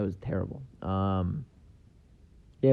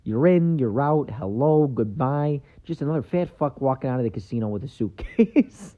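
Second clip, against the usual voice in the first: lightly imitated wiseguy, higher and punchy; a mock movie-gangster narration, pitched up; Joe Pesci; 4 semitones higher, 4 dB louder than usual. Comedian quoting Joe Pesci's casino film lines, lightly impersonated. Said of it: "Joe Pesci knocked it out of the park".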